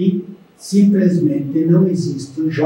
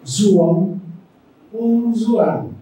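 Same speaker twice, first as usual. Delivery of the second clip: Zoão e Zoan com Z em vez do J; sotaque italiano; 3 semitones higher, slower than usual. Retold or imitated. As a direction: imitando imigrantes dizendo Zoão. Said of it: "mas a pronúncia, ela saía". (sotaque italiano leve em Zoão)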